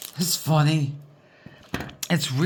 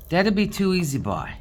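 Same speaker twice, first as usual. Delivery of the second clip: Newfoundland talk; 4 semitones higher than usual. Shown as a demonstration. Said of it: "That's pure Newfoundland talking".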